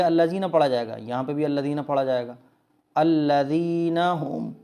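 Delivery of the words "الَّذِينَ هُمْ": "يُرَاءُونَ" with a very long held raa; drawn-out recitation. Shown as a demonstration. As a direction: stretch the raa and the final oon in "يُرَاءُونَ". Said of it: "اچھے طریقے سے کھینچ کر پڑھیں گے".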